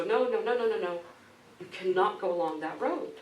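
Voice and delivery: villagers warning. Retold or imitated. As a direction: wave him off, hammed-up alarm. Villagers warn the teacher.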